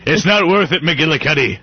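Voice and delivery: pleading cop. Pretend. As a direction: beg the partner to stand down. Mock cop standoff.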